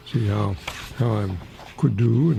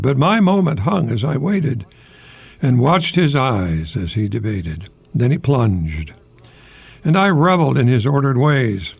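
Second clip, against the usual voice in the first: louder earnest poetry reading; poem reading; 2 semitones higher, 3 dB louder than usual. Acted. Host reads his robin poem to listeners, louder and earnest. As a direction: read it like a poem on the air. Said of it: "It's titled Point of View".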